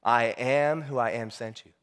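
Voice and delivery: deep, slow, solemn divine voice; God speaking, grave and unhurried; booming voice of God. Acted. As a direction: pronounce it low and measured, with weighty pauses. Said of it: "that booming voice says".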